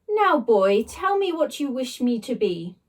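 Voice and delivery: lightly voiced regal blob; a hint of royal command; posh slime voice. Slime blob ordering the boy, lightly posh.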